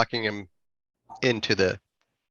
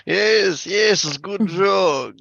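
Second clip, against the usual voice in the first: laughing character voice; 8 semitones higher, 5 dB louder, much slower than usual. Acted. Character laughing at own joke.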